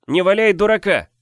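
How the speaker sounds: loud high begging; pleading. Acted. Brother begs the hothead to quit, loud pleading. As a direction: plead with him to quit fooling. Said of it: "умолял Сиговес".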